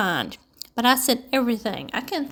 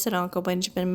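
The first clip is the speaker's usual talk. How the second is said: ordinary delivery, nothing marked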